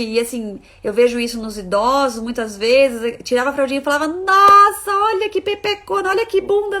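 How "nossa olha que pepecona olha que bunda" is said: much higher and louder gushing; mock gushing adult. Elder to a baby being changed, loud gushing coo. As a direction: coo loudly over the baby like an old-fashioned relative.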